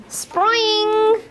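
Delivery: high, bright Spring!; bouncy Spring. Acted. Teacher reading a frog book to toddlers, bouncy call. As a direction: bounce the word up. Sound word in picture book.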